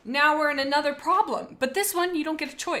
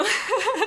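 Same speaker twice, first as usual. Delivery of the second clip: short high laugh; burst of laughter; 10 semitones higher, 6 dB louder than usual. Real, not acted. Laughing at friend's superhero answer, real laughter. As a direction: laugh out loud.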